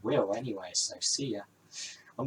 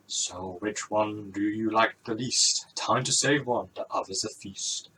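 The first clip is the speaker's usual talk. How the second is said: mystery voice. Acted. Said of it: "The mystery voice stops".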